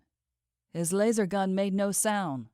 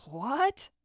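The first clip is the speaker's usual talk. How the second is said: slurred speech; 7 semitones higher than usual. Acted. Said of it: "His voice slurred even more".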